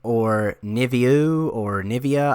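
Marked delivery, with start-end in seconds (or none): 0.6-1.5 "Niviu" slowly, ending in an oo sound; unsure, slow attempt at "Niviu"; alternative pronunciation guess. Shown as a demonstration. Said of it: "take my best guess and say". 1.8-2.3 "Nivea" ending in an uh sound; tentative attempt at "Nivea"; alternative pronunciation guess. Shown as a demonstration. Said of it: "I don't know".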